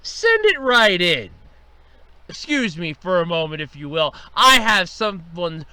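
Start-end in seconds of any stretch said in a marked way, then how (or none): 0.0-1.3 menacing. Acted. Boss ominously orders visitor in.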